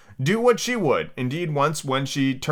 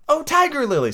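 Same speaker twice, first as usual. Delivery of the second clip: high, wistful call to a flower; wistful address; 3 dB louder than usual. A narrator's reading. Alice addressing a waving flower, high wistful call. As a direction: call out sweetly at a much higher pitch.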